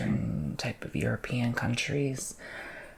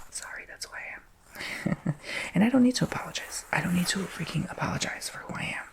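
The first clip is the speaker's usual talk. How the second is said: laughing, higher, rising defiance; getting emotional; 4 semitones higher than usual. Real, not acted. Refusing to apologize to viewers, laughing and defiant. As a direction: laugh it off, then dig in defiantly. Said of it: "I'm getting emotional about it".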